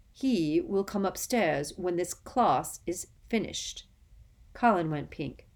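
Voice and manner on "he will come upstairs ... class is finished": coldly. Acted. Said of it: "said Snape coldly".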